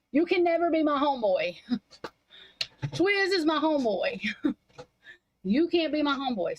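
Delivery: giggling through the retold line; amused replay of her own words; laughing mock repeat. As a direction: laugh while you say it again, mocking.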